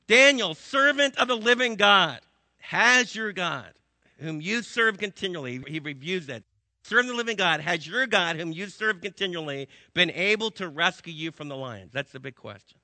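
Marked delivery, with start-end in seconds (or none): 0.1-5.6 loud, high pleading cry to Daniel; the king calls out into the pit, anxious; anguished call. Acted. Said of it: "he called out to Daniel in an anguished voice". 6.8-11.9 anguished call. Acted. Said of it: "he called out to Daniel in an anguished voice".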